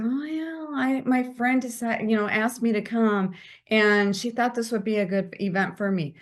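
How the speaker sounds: unsure, hesitant answer; shrinking, apologetic tone; timid. Shown as a demonstration. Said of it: "Do you see the difference in my voice and my tone?".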